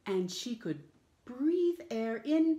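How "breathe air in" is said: big breath in. Shown as a demonstration. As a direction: breathe air in, high and slow. Acting out breathing in.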